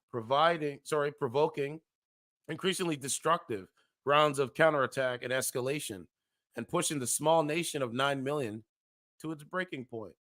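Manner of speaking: measured news-style reading of an article; formal reading of a grim forecast; article read aloud. Acted. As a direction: read it like a serious report.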